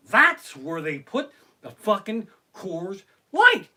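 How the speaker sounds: loud, high-pitched show of amazement; mock astonishment. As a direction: exclaim it loudly so everyone down the hall hears. Acted loud show of fake astonishment.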